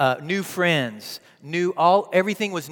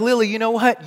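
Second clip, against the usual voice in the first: raised, higher mock-dad outburst; mock exasperation; 5 semitones higher, 4 dB louder than usual. Dad jokingly answering his upset daughter, mock exasperated. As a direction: pretend to fire back loudly at your child. Joke reply, taken back afterwards.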